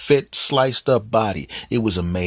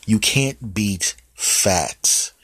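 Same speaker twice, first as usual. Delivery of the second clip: whisper; much slower than usual. Acted.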